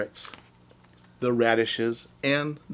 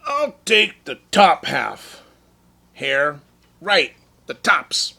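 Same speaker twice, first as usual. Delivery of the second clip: slow bear voice; 2 semitones higher, 7 dB louder, slower than usual. Acted. Sleepy Bear choosing.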